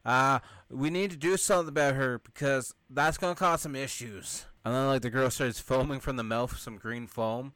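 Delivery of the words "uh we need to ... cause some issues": imitated alarm, higher pitch; alarmed crowd. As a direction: voice the crowd as the claws come out. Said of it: "and everyone's like".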